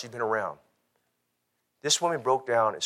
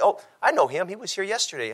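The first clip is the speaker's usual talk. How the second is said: lady's voice; 9 semitones higher than usual. Retold or imitated. Lady recognizing son at door.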